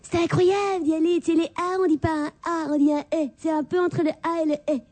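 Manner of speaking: put-on posh Paris accent. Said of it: "l'équivalent du seizième".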